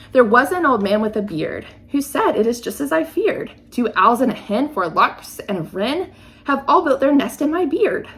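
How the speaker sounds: bouncy sing-song limerick reading with a steady beat; limerick read aloud. Shown as a demonstration. Teacher reading a limerick to her students, in a rhythmic sing-song. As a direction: read it so the class can hear the rhythm. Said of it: "So I'm gonna read you one".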